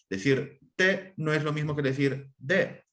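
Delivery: "T" crisp and voiceless, then "D" voiced; voiceless versus voiced. Shown as a demonstration. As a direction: contrast "T" sharp and unvoiced with a buzzing voiced "D". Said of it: "oposición entre consonantes sordas y sonoras".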